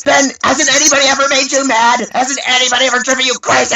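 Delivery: high, loud imitation of a director at wit's end; hammed-up furious shriek; exasperated angry director. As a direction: explode in mock exasperation. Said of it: "angrier and angrier".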